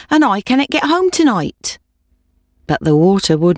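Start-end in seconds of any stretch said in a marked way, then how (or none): 0.1-1.8 high, desperate plea; pleading old woman. A narrator's reading. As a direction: cry it out high and despairing.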